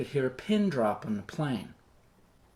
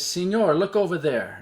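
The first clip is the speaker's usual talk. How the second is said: lightly voiced soldier in broken English; 3 semitones higher, 3 dB louder than usual. Soldier points something out to passenger, in broken English. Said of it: "he talks in broken English".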